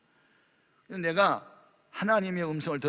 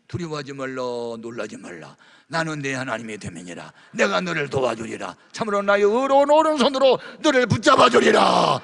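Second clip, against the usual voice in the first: booming voice of God; 10 dB louder than usual. Acted. Preacher booming God's promise to himself. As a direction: proclaim God's promise louder and louder.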